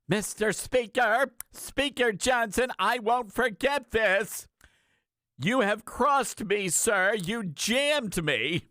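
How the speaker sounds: riled-up Lindsey Graham. Retold or imitated. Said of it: "You missed your calling ... an impersonator".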